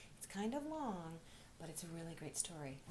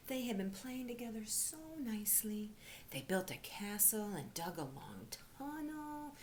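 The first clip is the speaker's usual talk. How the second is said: hushed story narration. A narrator's reading. Teacher reading a storybook to children, hushed.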